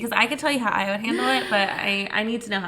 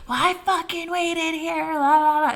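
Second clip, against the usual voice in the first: mock angry rant; 7 semitones higher, 4 dB louder than usual. Cohost mocking how not to complain, hammed-up rant. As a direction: play the ranting customer for laughs. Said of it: "You don't have to be like".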